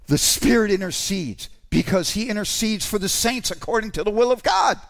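rising to a fervent shout; preaching shout. Real, not acted. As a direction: drive it home at full force.

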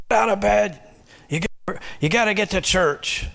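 high, bossy mother calling up the steps; mother yelling up the stairs. Acted. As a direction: rouse a lazy son, pitched well up. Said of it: "mother yells up at her son".

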